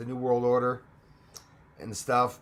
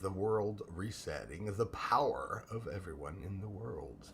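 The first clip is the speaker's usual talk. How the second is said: low, slow, hushed doom voice; ominous whisper; 6 semitones lower, 9 dB quieter than usual. Pretend. Streamer opens with an ominous low hushed whisper. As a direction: whisper it like a dark prophecy. Dramatic ominous intro about reset.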